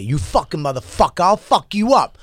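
mock angry threat, not shouted; mildly heated imitation of a threat; imitated snapping. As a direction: snap back as the retold stranger. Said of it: "he just snaps at me".

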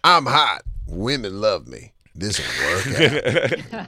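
slow, dopey confident; dumb himbo voice. Retold or imitated. Friend mimicking a himbo's confidence, slow and dopey. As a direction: play a clueless, cocky hunk. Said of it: "Himbos are always like".

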